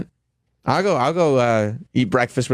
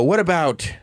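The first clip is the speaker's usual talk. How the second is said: imitating the Rock; much slower than usual. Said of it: "The Rock would go".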